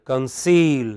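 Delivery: CONCEAL with a long, strong CEAL; light con-, full -CEAL in Conceal; final-syllable stress. Shown as a demonstration. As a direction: lean on the second syllable of Conceal. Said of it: "bring that distinction very clearly".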